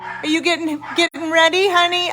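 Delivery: talking to a dog. Real, not acted. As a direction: coo goodbye to the dog.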